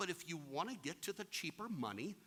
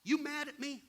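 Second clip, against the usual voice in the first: imitating Carl; 10 semitones higher, 7 dB louder than usual. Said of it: "he's like".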